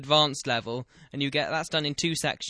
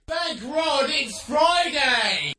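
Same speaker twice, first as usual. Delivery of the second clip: much higher, loud, slow drawn-out cry; jingle shout; 9 semitones higher, 4 dB louder, much slower than usual. Acted. Radio host shouting his catchphrase, slow and loud. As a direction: belt it out like a station jingle. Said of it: "jingle shout".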